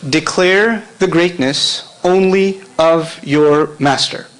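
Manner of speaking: slow and deliberate for note-takers; slow dictation. Shown as a demonstration. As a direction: spell it out slowly so they can write. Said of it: "write this in English".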